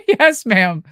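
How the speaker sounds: laughing yes ma'am. Retold or imitated. Nervous reply to idol.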